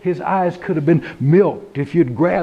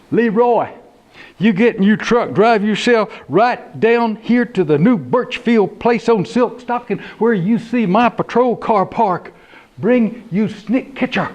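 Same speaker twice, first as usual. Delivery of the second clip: deputy on the phone; 5 semitones higher than usual. Acted. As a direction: order him over the phone.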